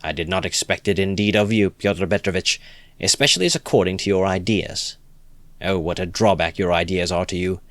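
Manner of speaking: simple-hearted friend crying out in praise; earnest cry. Acted. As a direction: insist warmly, with passion. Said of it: "cried the simple-hearted Lebeziatnikov".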